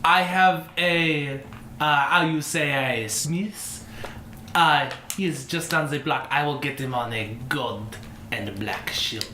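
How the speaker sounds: obliging shopkeeper, searching for the word; French-style tailor. Acted. Tailor promising a customer a smith's shield, obliging character voice.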